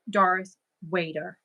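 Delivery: Darth Vader with German V as W, Darth Wader; German accent. Shown as a demonstration. Showing viewers her German-accented Darth Wader. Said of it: "if I say it the way we say it".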